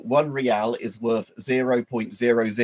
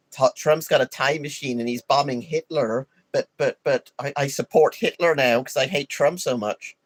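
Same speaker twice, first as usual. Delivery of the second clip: higher, whiny mock liberal voice; 5 semitones higher than usual. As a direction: parody an outraged liberal. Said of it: "if you're a liberal and you'd be like".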